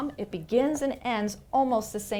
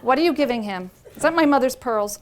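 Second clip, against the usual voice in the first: indignant angels; 2 semitones higher, 8 dB louder than usual. Acted.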